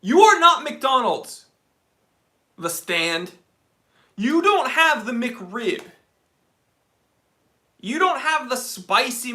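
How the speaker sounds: loud, slow mock scolding of the restaurant; mock rant. Ranting at the restaurant.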